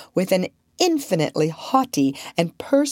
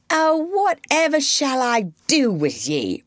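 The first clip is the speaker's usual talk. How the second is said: moaned; 10 semitones higher than usual. A narrator's reading. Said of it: "moaned the unhappy mother".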